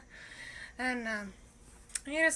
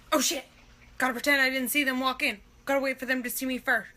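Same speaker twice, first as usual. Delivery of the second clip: panicked inner voice; 5 dB louder, faster than usual. Retold or imitated. Panicking when the date walks in.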